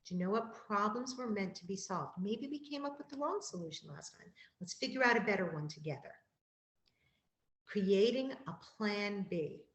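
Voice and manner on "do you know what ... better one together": reassuring. Shown as a demonstration. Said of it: "It's saying".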